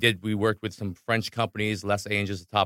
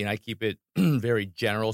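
throat catching mid-sentence; choking on candy. Real, not acted. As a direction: clear the throat while talking. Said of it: "Sorry, I'm choking on Pixie Stix".

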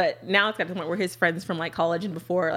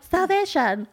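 hammed-up high pious gift answer; laughing, exaggerated churchy reply; mock-pious answer; 10 semitones higher, much slower than usual. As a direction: say it high and drawn out through laughter. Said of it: "don't be all like".

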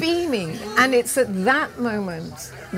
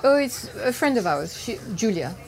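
lightly imitated French accent; mother's French accent. French mother answering the man in the car, light French accent. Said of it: "she has this very strong French accent".

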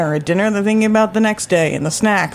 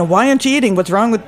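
lightly voiced Jewish mother nagging; mild Jewish accent pushing food on a guest; 3 semitones higher, faster than usual. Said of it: "that's a Jewish accent".

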